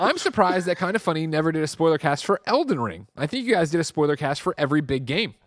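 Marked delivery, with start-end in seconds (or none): none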